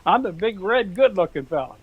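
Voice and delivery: high mock bull bellow over the fence; lovesick bull. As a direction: holler like a bull showing off for the girls.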